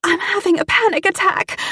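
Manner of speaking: very high, tearful panic; through tears. Acted. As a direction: wail it through put-on tears. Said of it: "I said through the tears".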